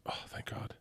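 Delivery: breathy whispered relief; relieved whisper. Retold or imitated. Bert whispers to himself after the border guard clears them, relieved. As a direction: whisper it like a weight just lifted.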